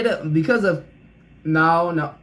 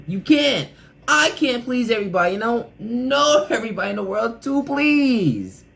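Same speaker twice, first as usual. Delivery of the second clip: worked up; 4 semitones higher than usual. Real, not acted. Worked-up advice on pleasing people.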